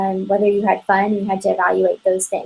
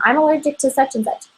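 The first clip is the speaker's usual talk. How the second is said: lightly higher, quicker customer; 5 semitones higher, faster than usual. Pretend. Consultant voices a customer stating an allergy, lightly higher. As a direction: toss it off as a customer.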